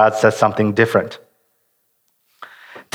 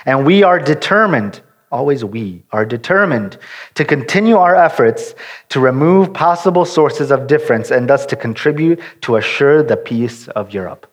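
formal reading. Shown as a demonstration. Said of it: "listen how it reads".

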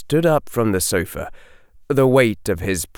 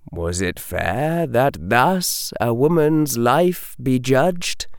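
ordinary delivery

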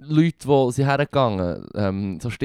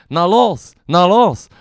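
crowd shout; 5 semitones higher, 7 dB louder, much slower than usual. Retold or imitated. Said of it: "Anführungs- und Schlusszeichen".

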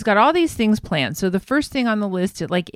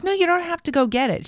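imitating Tamara; 9 semitones higher, faster than usual. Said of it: "She's like".

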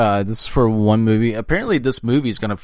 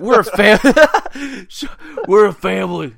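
squeaky voice; 9 semitones higher, 6 dB louder than usual. Pretend. Echoing voice.

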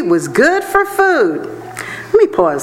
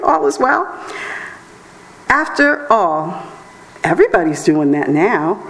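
smooth seducer. Retold or imitated. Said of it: "is telling you".

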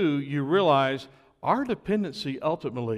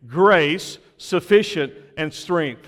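call and response; 4 dB louder, slower than usual. Shown as a demonstration. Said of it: "Say that with me".

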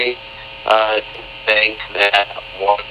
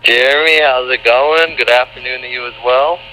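enthusiastic; 3 semitones higher than usual. Real, not acted. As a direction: greet the host with lively show energy. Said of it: "now you sound more enthusiastic".

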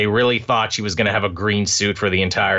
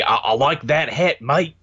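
a light Australian accent, the vowel in hat raised; 4 semitones higher than usual. Shown as a demonstration. Showing his co-host the Australian vowel, light Australian accent. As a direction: say it like an Aussie would. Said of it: "it's the E's".

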